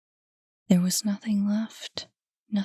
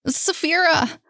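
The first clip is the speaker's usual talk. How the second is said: high, loud calling of her name; 9 semitones higher, 5 dB louder than usual. Acted. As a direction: call her name through the house. Boy breaks free, calls.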